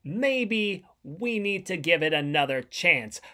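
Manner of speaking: grand proclamation voice; town crier. Acted. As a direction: announce it like a royal decree. Mock proclamation intro.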